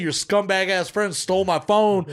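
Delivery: retold angry retort. Phone owner hitting back at the drug buyer, angry. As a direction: fire back at the accuser.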